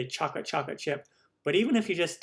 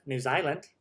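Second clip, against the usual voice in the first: New Zealand accent. Shown as a demonstration. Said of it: "there's my New Zealand accent".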